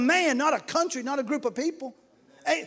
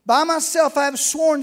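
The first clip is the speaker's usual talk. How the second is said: voice of the Lord; 4 semitones higher, 7 dB louder than usual. Acted. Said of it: "The Lord speaking".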